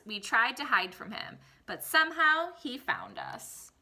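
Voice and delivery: storybook read-aloud voice for the class; expressive picture-book reading; reading to children. Acted. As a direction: read it like story time for kids. Teacher reads picture book aloud.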